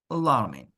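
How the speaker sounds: "alarming" with a strong L. Shown as a demonstration. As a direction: lean on the L in "alarming". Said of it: "L, strong".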